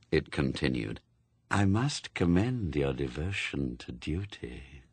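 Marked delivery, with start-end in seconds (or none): 1.5-4.8 hollow, dropping voice of Death, low at the end; Death, calm and cold. Acted. Death speaks.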